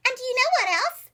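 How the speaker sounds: high, loud, fast eager question; excited. Acted. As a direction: bubble over with eagerness. Excited frog Lydia.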